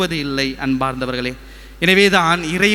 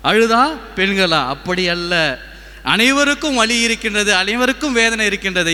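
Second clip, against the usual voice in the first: preaching. Acted. Preacher tells congregation that everyone has pain, preaching. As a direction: declare it to the congregation. Preaching, raised above his chat.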